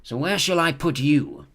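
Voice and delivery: slow pondering hat; Sorting Hat pondering. A narrator's reading. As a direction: weigh the choice slowly as the hat.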